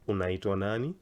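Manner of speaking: "Unaitwa nani?" starting at normal pitch, climbing on "nani"; rising question intonation. Shown as a demonstration. Teacher showing it's a question, "nani" going up. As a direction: let "nani" rise at the end. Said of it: "So long as the intonation goes high".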